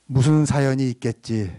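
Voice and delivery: projected line for the congregation to echo; leading a repeat-after-me. Shown as a demonstration. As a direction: call it out evenly for everyone to repeat. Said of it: "여러분, 한번 따라합시다".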